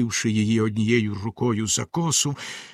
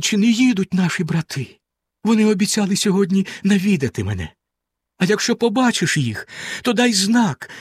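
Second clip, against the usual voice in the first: higher, urgent pleading; anxious wife; 6 semitones higher than usual. Acted. Frightened wife begs sister to watch the road, higher. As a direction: beg your sister, rising anxiety.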